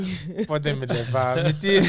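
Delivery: loud laughing protest. Real, not acted. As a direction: laugh out the words. Volunteers laughing. (rindo alto)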